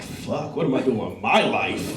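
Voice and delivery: despairing mutter. Retold or imitated. Diner overwhelmed by fancy menu, muttering softly. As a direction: mutter it like a small existential crisis.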